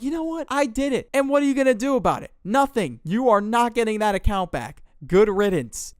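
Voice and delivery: high, loud, fast mocking gloat; Michael gloating at the girl, mock taunting. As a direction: rub it in her face.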